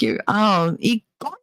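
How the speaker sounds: imitating odd emphasis on "y coño"; mock a learner's strange delivery of "coño"; weirdly said Spanish. Imitating mother trying Spanish, weirdly said "coño". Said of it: "why do you say it so weird".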